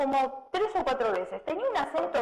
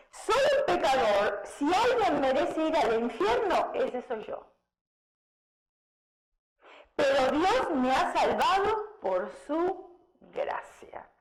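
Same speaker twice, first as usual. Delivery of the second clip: sincere believer; 2 semitones higher, slower than usual. Retold or imitated. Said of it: "fíjense entre el religioso y el cristiano".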